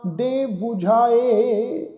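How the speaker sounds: slow, measured verse reading with held vowels; scripture recitation. Shown as a demonstration. Teacher reciting a Gurbani line to the congregation, slow recitation. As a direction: recite it slowly, phrase by phrase. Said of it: "ਸ਼ਬਦਾਂ ਦਾ ਉਚਾਰਨ ਕਰਦੇ ਹਾਂ".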